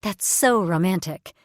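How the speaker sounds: slow, swooning gush; dreamy gush. Acted. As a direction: gush it like a romance fan. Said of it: "clasped her hands to her chest".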